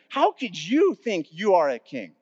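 mildly scornful, incredulous challenge; acted-out contempt, emphatic but controlled; disgust and disbelief. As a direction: press each point in disbelief, stressing "you". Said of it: "With this disgust and disbelief in there".

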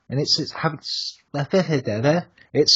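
stumbling over the words; tongue-tied. Real, not acted. Guest explaining Grimfest to the co-host, tongue-tied. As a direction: trip and restart mid-phrase. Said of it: "I can't speak normally".

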